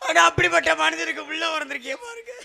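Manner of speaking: hammed-up lament; mock crying. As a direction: wail it like a comic mourner. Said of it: "ஏய், இப்ப நீ ஏன் அழுகுற?". (போலி ஒப்பாரி)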